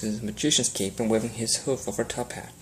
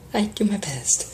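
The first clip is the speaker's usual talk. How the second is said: cracked voice; 10 semitones higher, slower than usual. A narrator's reading. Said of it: "Rarity replied in a cracked voice".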